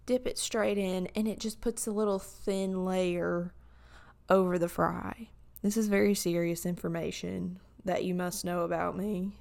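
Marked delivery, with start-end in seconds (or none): 5.6-9.3 hoarse, breaking late-night voice; voice cracking. Real, not acted. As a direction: let the voice crack and catch. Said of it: "sorry my voice is cracking".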